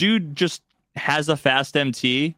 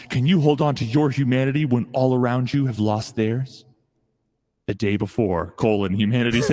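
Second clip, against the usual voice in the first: horror trailer voice. Pretend. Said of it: "stock trailer voiceover".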